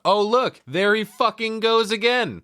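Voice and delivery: put-on high, sarcastic screeching drunk; mock shrill yell. Judy yelling as David leaves, a high mock screech. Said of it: "Judy yells out".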